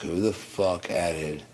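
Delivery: dragged-out outraged question; who the fuck added said slowly; slow, drawn-out anger. Retold or imitated. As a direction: spell out each word in disbelief. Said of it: "I'm like".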